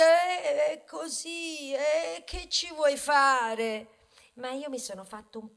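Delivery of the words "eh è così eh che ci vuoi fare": imitazione rassegnata. Retold or imitated. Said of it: "alzate le spalle e dite".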